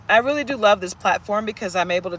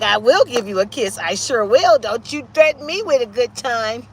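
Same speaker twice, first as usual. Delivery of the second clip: voicing the dog; 2 semitones higher, 7 dB louder than usual. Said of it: "She's like".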